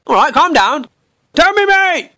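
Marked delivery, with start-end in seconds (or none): 1.3-2.1 eager pleading. Pretend. Pestering friend on phone.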